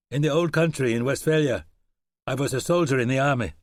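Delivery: a hint of a German soldier; German accent. German reassuring Webb about his arm, light German accent. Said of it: "a German accent".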